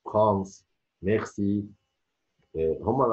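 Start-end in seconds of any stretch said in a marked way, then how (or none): 0.0-1.6 فرانس and ميرسي with R between ghain and kha; guttural French R. Shown as a demonstration. Teacher showing French speakers' R, throaty between gh and kh. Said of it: "او بين الغين والخاء".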